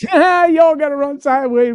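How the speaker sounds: mock whiny lineman. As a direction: mimic a sulky lineman griping. Mocking the linemen's complaint.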